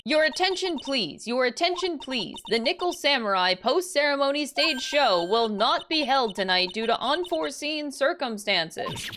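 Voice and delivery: lightly put-on announcer voice; formal lobby announcer; public announcement. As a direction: read it as a formal announcement to a crowd.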